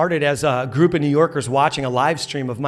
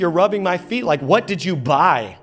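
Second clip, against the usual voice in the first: wife's retold suspicious interrogation; mock accusing; 4 semitones higher than usual. Wife grilling her husband, mock-angry suspicion. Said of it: "now it turns to anger".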